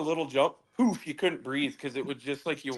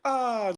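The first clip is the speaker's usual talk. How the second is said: high-pitched "ah" of relief; imitated relieved sigh; 10 semitones higher than usual. Teller voices everybody after the slide stopped, relieved sigh. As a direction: mimic a crowd sighing in relief. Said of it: "I remember the sigh of relief".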